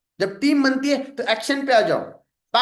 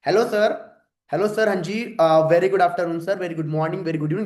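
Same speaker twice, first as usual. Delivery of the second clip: polite sales greeting; 4 semitones lower, slower than usual. Shown as a demonstration. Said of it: "ये इसका tattoo बनाओ".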